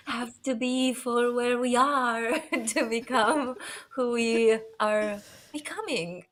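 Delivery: lightly voiced guru cadence, laughing midway; mock-profound motivational line; a touch of a self-help speaker; Dave Hollis impression. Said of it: "That's my best impression".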